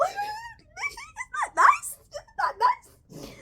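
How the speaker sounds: very high, slow, sarcastic sing-song with a laugh; mock sweetness, dripping with irony. Vlogger mocking the show's lack of scenes, sarcastic falsetto.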